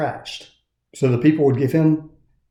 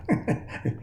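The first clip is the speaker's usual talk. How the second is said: laugh; 9 dB quieter than usual. A narrator's reading. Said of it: "Punchinella laughed".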